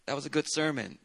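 quiet, lukewarm compliment; a churchgoer giving a weak compliment after a boring sermon, quiet; faint congregant praise. Retold or imitated. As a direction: mutter a polite, half-hearted compliment. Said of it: "When somebody says that in a certain tone".

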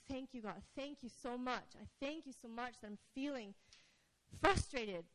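barely above a whisper, thanking God; quiet, soft-spoken thanks; hushed prayer. Retold or imitated. Praying quietly to God while frustrated, hushed.

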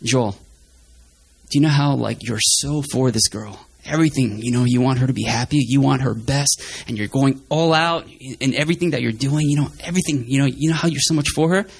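God's gentle voice. Retold or imitated. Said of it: "I felt God was saying".

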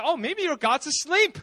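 teasing mock suggestion; acted mock-innocent taunt; making fun. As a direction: needle them playfully. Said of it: "he's making fun of them".

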